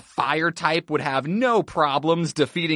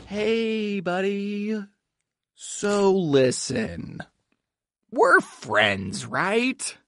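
slow, careful sweet-talk; gentle coaxing; 2 semitones higher, much slower than usual. Acted. Coaxing the Pokemon after outburst.

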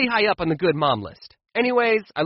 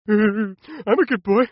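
put-on slow, sing-song little-kid voice; mock good boy; 3 semitones higher, 3 dB louder, much slower than usual. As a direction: drag out "I'm a good boy" like a sweet child. Kid showing off good behaviour.

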